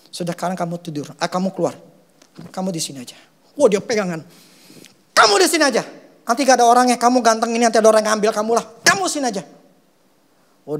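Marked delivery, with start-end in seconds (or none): 0.1-3.2 soft soothing words. Retold or imitated. Soothing the crying son, retold. 5.1-9.4 louder coaxing plea. Retold or imitated. Coaxing the son to stay, retold.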